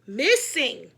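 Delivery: loud, stressed Missing; emphatic correction. A narrator's reading. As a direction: punch the word Missing to correct. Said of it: "Miss Krupp said".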